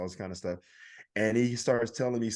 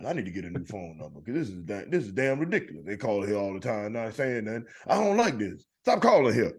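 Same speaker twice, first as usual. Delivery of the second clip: put-on old man grumbling. Comedian pretends to complain to someone at home about silent calls. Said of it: "act like I'm talking to somebody else".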